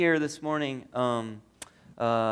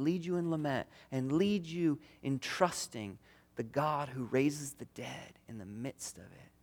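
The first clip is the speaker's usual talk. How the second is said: tender voice of Jesus; 3 dB quieter, slower than usual. Retold or imitated.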